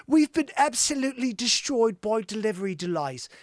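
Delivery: lightly put-on Cockney accent; attempted Cockney. Host voicing a singer's apology, attempted Cockney accent. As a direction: have a rough go at Cockney. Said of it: "like, a, a cockney".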